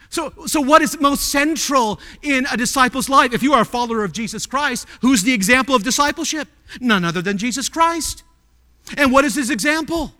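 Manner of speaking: high, urgent pulpit questions; impassioned preaching. Real, not acted. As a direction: press the questions on the congregation. Preaches rousing questions to congregation.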